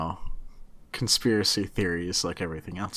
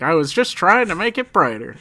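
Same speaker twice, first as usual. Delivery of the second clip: whiny complaint; 8 semitones higher, 8 dB louder than usual. Retold or imitated. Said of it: "Getting yelled at, like".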